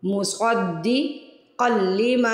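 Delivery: मुसद्दिक़ल लिमा with a long ma; stretched vowel. Shown as a demonstration. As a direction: draw out लिमा slowly. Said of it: "उस word को stretch करते हैं".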